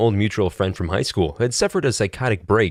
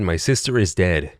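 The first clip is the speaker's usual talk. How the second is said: said calmly; 3 semitones lower than usual. Retold or imitated. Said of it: "since he said it so calmly".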